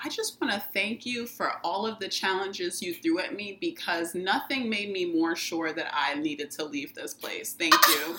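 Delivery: soft, low, composed thank-you speech; controlled and softly cutting; sweetly composed. Retold or imitated. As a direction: keep it cute and quiet, polite shade. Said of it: "I kept it really cute".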